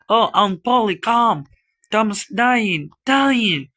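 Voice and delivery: loud, high cry for help; panicked calling, rising to the last word; alarmed shout. Acted. Sid flew downstairs to Aunt Polly, alarmed shout.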